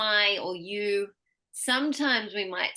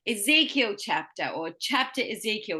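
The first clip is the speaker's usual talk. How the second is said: first noun stronger in Ezekiel chapter, then chapter Ezekiel; stress on first word. Shown as a demonstration. Teacher comparing word orders, first of Ezekiel and chapter stressed. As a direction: lean on whichever of Ezekiel or chapter comes first. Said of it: "The first one is gonna have".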